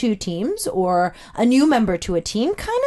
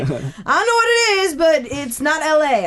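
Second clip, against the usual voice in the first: friend's puzzled verdict, pitched up at first; retold friend; 2 semitones higher than usual. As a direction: imitate a friend judging an accent. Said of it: "He's like".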